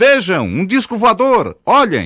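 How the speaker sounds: very high-pitched, loud, almost yelling. Showing how to grab a crowd's attention, almost shouting. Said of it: "em tom de voz quase gritado".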